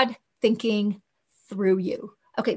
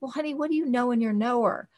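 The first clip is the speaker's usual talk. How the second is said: gentle coaxing; 5 dB quieter, faster than usual. Retold or imitated. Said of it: "And I would just say".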